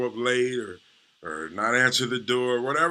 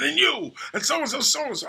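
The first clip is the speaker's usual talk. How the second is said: much higher and louder, lashing out at a friend; mock furious rant, pitched way up; angry outburst; 13 semitones higher, 4 dB louder than usual. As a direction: snap at your buddy out of nowhere.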